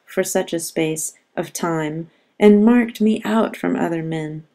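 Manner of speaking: poem reading. Shown as a demonstration. Teacher reading Petrarch's sonnet to the class, measured poem reading. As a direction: read the sonnet aloud, measured. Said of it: "I'll just read it".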